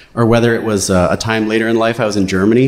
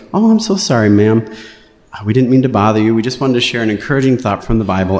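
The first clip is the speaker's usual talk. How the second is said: polite father. Retold or imitated. Father apologizing to the neighbor, politely and sweetly. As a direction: apologize sweetly to the angry woman. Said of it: "my father was very polite".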